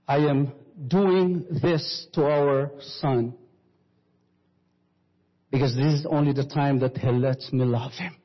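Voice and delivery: understated calm wife's reply. Acted. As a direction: answer him gently, unhurried. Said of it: "to her husband so calmly".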